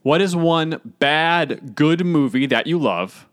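slow, deliberate second read; careful reread. Real, not acted. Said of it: "Please do that again".

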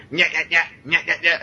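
high-pitched, silly vampire yapping; half-hearted background monster, yapped high; mock vampire noises. Podcaster mimicking idle background vampires, silly high yapping. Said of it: "vampires in the background going".

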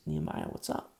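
offhand, breezy, quiet and unvoiced; casual greeting. Shown as a demonstration. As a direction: toss it off like a buddy saying hi. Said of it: "He doesn't say it like that".

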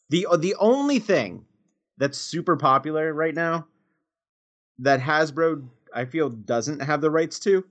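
hiccuping mid-sentence; with hiccups. Real, not acted. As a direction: talk through the hiccups. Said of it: "excuse me, I'm hiccuping".

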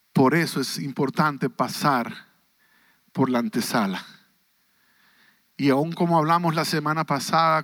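a hushed, intimate voice of God; God speaking softly. Acted. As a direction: speak as God, low and close to the listener's ear. (Dios hablando en voz baja e íntima)

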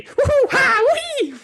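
high, loud gleeful whooping; far-off giddy cheering; distant whoops. Acted. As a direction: whoop it up like a happy mad scientist.

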